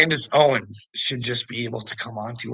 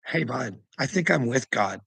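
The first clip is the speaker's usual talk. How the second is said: ordinary talk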